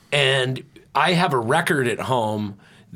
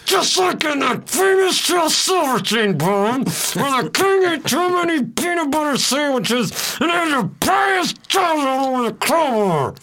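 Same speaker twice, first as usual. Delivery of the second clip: much higher, loud excited yelling; excited shouting; 13 semitones higher, 3 dB louder than usual. Real, not acted. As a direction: get wound up and shout it out. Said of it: "Calm down, dude".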